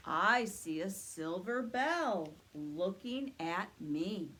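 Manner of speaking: slow booming Santa reply. Acted. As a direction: answer slowly like Santa himself. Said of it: "let's ask Santa what he sees".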